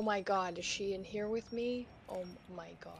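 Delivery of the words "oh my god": whispering while hiding. Real, not acted. She is in here with me.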